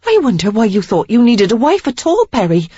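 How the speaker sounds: high, loud, scornful; indignant tirade. A narrator's reading. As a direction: tear into him about his mother. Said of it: "righteous indignation that sustained her".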